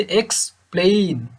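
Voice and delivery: এক্সপ্লেইন with quick এক্স and long-held প্লেইন; stress on PLAIN. Shown as a demonstration. Teacher showing short and long syllables, এক্সপ্লেইন with a drawn-out প্লেইন. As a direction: snap through এক্স, stretch out প্লেইন. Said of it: "আমি এক্সটাকে দ্রুত বলছি".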